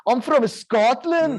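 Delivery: slow, hammed-up Scottish accent. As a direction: ham up a Scottish villain's brogue. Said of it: "but it's a Scottish accent".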